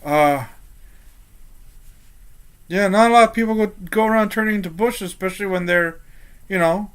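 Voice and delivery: lightly voiced guard settling after a scare; awkward guard. Guard to bush-turned companion after a scare, mildly awkward. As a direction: start high, ease down into halting awkwardness.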